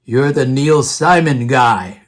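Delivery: slow, low imitation of a Russian professor; Russian accent. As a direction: draw it out in a put-on Russian accent. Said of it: "in his Russian accent".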